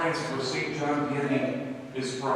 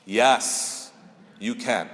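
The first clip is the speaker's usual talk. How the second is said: firm, confident lower-pitched yes; 5 semitones lower, much slower than usual. Retold or imitated. Traveler answering the airline attendant, confident. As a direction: answer decisively, dropping the pitch. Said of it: "I said it with confidence".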